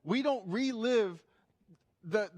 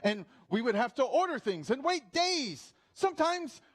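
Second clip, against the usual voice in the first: put-on British accent; 2 semitones higher than usual. Granddad telling his grandson of pandemic hardships, British accent. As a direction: reminisce theatrically in a mock British accent. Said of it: "I'm gonna have some British accent".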